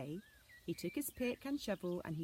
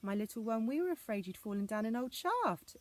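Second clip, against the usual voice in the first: relieved exclaim; 4 semitones higher, 4 dB louder than usual. Acted. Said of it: "exclaimed her daddy".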